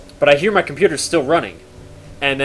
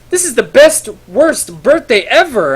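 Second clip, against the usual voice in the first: high, slow, strained despair; hammed-up tragic cry; mock despair; 9 semitones higher, 6 dB louder than usual. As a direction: wail it, half laughing, half crying. Happy and sad birthday.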